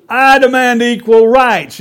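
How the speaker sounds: loud, high-pitched protest yell; storybook yell. Acted. Goose demanding rights from the hen, high loud yell. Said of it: "yelled the goose".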